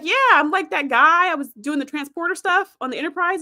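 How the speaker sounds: put-on like spotting an old acquaintance; eager recognition. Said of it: "And he's like".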